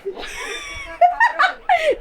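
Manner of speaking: high shrieking laugh; burst of laughter. Real, not acted.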